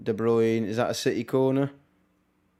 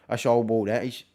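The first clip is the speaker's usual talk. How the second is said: put-on awful Brummie accent. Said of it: "that was an awful Brummie accent".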